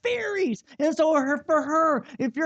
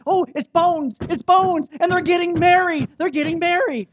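loud, excited gushing over a TV show; gushing wife; 6 semitones higher, 8 dB louder than usual. Retold or imitated. Husband mimicking his wife's loud gushing over Bones. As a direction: squeal like a fan whose favourite couple weds. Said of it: "my wife's like".

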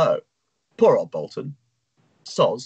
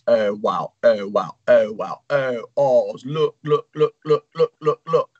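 awestruck. Acted. Hull gasps at the shop.

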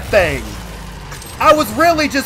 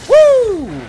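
high whoop; 11 semitones higher, 3 dB louder than usual. Real, not acted. Excited by a surprise enemy.

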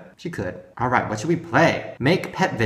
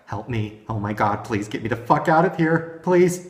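mildly panicked pleading, rising towards please; mock terrified plea. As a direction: voice a trapped doll begging to escape, lightly hammed. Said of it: "She looks terrified. She literally looks like".

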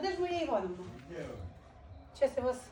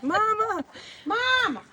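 high drawn-out call, village style; 11 semitones higher, much slower than usual. Retold or imitated. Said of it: "Як в селі кричать".

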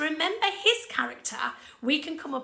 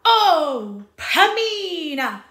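much louder, higher lovesick cry with a long sigh; deeply in love; 6 semitones higher, 10 dB louder, much slower than usual. Shown as a demonstration. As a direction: pour all his longing into her name. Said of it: "show how much Tamino is in love".

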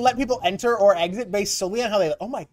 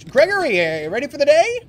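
tag; 4 semitones higher, 6 dB louder, faster than usual. Pretend. Calls to guard as day opens.

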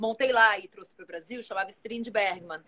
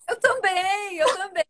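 laughing; 8 semitones higher, 6 dB louder, slower than usual. Real, not acted. Joins in the allergy laughter.

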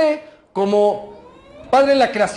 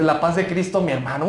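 tender greeting; 5 semitones lower than usual. Retold or imitated. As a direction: greet him gently like family. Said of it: "le dices".

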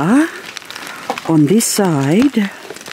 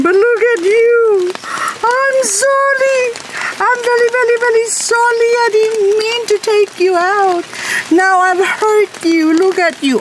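very high, sing-song apology to a plant; baby talk. Acted. Gardener apologises to a hail-damaged plant in baby talk. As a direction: coo sorry at it like a hurt child.

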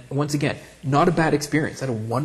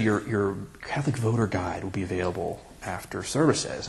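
priest voice; 4 semitones lower, 6 dB quieter than usual. Retold or imitated. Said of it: "the priest said".

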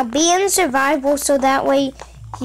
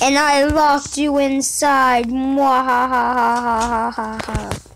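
slow theatrical villain menace; slower than usual. Pretend. Gloats as villain in game.

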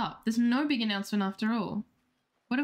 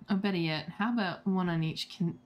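lightly voiced game suitor, a bit low; hint of a lower-voiced character; suitor's offer; 3 semitones lower than usual. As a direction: make a smooth pitch to a date, dropping lower.

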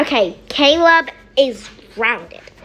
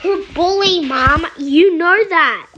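whiny protest; 4 semitones higher, 4 dB louder than usual. Acted. Caleb protests to mom.

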